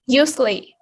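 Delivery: Usually stressed on U; U-sually, first syllable strongest. Shown as a demonstration. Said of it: "the first syllable".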